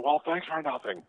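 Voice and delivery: lightly voiced Jim Carrey sarcasm; Jim Carrey kidding. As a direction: tease him as he leaves, Carrey style. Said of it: "in Jim Carrey-esque manner".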